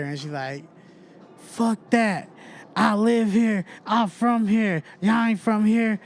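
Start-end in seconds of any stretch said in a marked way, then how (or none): 1.4-6.0 higher, defiant mock rant; mock madder mom. Angry mom telling the outsiders they're not from here, higher. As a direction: claim the block as yours. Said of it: "she even got madder".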